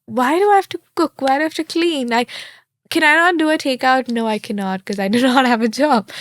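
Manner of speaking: tired student venting about cooking and cleaning; exasperated whining. Retold or imitated. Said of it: "You're just like".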